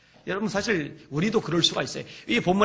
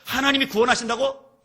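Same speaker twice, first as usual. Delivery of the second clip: lightly acted, higher-pitched scoffing; mocking jeer; 6 semitones higher, 4 dB louder than usual. Onlookers deriding David in his trouble, mock jeering. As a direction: toss out each echoed claim as an incredulous question. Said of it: "그리고 조롱하는 거예요".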